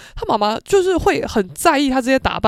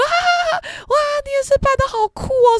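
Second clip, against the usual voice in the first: much higher, laughing mom voice. Retold or imitated. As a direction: laugh out at the silly costume. Mother bursts out laughing at costume.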